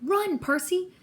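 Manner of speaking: high, urgent call to flee; urgent shout. A narrator's reading. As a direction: cry out a warning. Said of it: "Annabeth's voice shouted".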